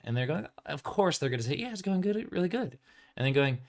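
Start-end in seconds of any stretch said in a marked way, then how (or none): 1.6-2.8 high, breezy fake-upbeat reply; mock cheerful. A vendor brushing off a fellow vendor, high mock cheerful. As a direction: sell it like everything's fine. Free League putting on brave face.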